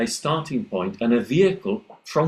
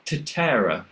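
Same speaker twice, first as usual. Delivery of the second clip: put-on English-accented Spanish. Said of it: "very English alveolar T".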